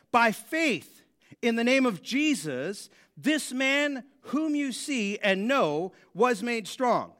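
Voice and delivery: slow, emphatic proclamation from scripture; scripture reading. A narrator's reading. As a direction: read it out deliberately, weighting each phrase. Resumes reading Peter's speech.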